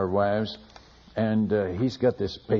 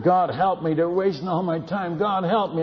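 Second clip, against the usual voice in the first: pleading cry to God; 5 semitones higher than usual. Retold or imitated. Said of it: "I'm crying out to God".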